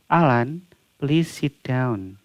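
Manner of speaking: polite, unhurried please sit down; polite request. Shown as a demonstration. Teacher asks wandering student Alan to sit, politely. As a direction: ask the student kindly to sit. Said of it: "pakai request dengan sopan".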